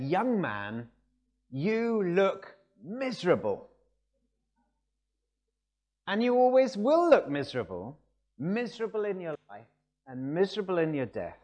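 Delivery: loud, high pulpit pronouncement; single out one listener and pronounce doom on them; preacher singling someone out. Retold or imitated. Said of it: "he picked on Spurgeon".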